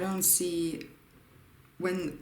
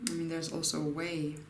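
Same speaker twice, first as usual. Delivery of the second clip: talking between sips of hot tea; slurping tea. Real, not acted. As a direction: speak around a slurp of tea. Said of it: "I'm slurping my tea".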